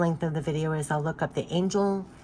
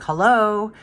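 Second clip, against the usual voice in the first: louder, playful call across the water; adrift person calling out; 3 semitones higher, 6 dB louder than usual. Acted. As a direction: call out like someone bobbing at sea. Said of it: "somebody, like, almost bobbing out in the water".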